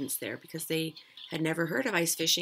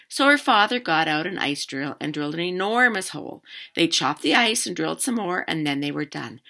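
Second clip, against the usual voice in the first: lively read-aloud, louder than chat; story narration; 9 dB louder than usual. A narrator's reading. Teacher reading a fishing story to children, animated narration. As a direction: read a picture book out to children.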